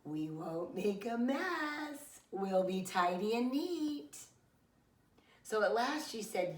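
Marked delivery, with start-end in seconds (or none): 0.0-4.2 slow, sugary pleading to mom; very sweet. Acted. Child sweetly begging mom to let the dragon come. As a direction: sweet-talk mom into saying yes, slowly. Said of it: "then said very sweet".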